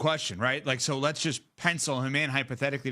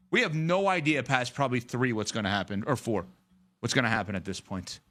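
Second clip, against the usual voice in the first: out of breath; 4 semitones lower than usual. Real, not acted. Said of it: "Whew, I'm out of breath".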